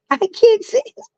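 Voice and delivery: very high, helpless squeak; cracking up at your own stumble; giggly squeal. Real, not acted. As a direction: voice shooting up in amused defeat. Squeals, failing at word again.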